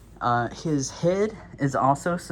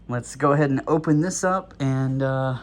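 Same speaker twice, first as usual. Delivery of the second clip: out of breath; 3 dB louder than usual. Real, not acted. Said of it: "I don't know why I'm so out of breath".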